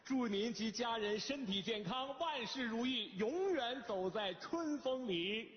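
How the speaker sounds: slow, ceremonious greeting; flattering well-wishes. Acted. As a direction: recite fawning wishes to a boss, drawing out the ending. Son voices flattering message to boss.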